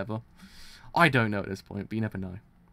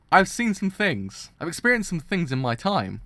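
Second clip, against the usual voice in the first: worked up; 7 semitones higher, 8 dB louder than usual. Real, not acted. Overwhelmed reaction to manga.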